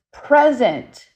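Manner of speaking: lightly voiced friendly cowboy spirit saying one word; howdy voice. Ghost hunter imitating the spirit's reply, a hint of a howdy voice. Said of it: "in his, like, howdy voice".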